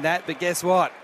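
excited call over crowd boos; cricket commentator. Acted. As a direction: rise for the catch. Live catch and all out call.

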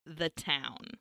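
very slow, low and soft; hushed, weighty retold warning; solemn plea. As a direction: spell out a grave request, word by word.

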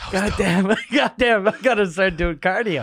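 hammed-up winded griping; winded lizard. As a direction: play an exhausted little lizard. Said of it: "he's fucking holding his stomach".

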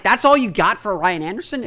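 lightly imitated fans' grumble; mock complaint. Fans grumbling about the trade return, mock complaint. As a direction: put on a mildly incredulous complaint. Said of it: "people complain".

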